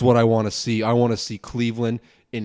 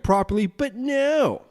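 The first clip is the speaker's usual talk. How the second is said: sarcastic exasperation; 12 semitones higher than usual. Real, not acted. Podcaster lamenting his wasted time, sarcastically exasperated. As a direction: pitch climbing to a very high "no".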